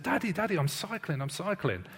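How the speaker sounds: a lightly voiced little kid, high on Daddy; excited child. Child shouting to dad on the bike, lightly voiced excited kid. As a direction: pastor imitating his proud child calling out, a hint of a young kid. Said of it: "this child who did this would turn around to me and said".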